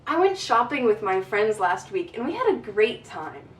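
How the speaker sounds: bright, interested, with lively tune; lively intonation. Shown as a demonstration. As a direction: sound truly interested in your story. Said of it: "You see how I have intonation?".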